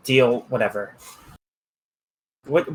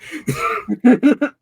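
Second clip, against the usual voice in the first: laugh impression; 11 semitones higher than usual. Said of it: "I can even do this".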